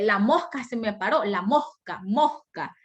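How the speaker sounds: "mosca" with a weakened, breath-like s; dialect pronunciation. Shown as a demonstration. Teacher showing individual speech, weakened s in "mosca". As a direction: soften the s in "mosca" toward an h. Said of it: "Pero así no se dice".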